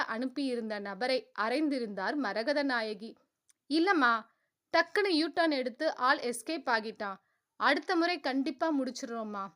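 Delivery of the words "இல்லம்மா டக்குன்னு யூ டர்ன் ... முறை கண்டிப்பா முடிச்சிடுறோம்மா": humble. Acted. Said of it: "என்றான் அவன் பவ்யமாக".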